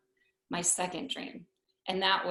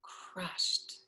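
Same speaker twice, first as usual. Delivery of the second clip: crushed; 2 semitones lower, 9 dB quieter than usual. Real, not acted. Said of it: "And I am".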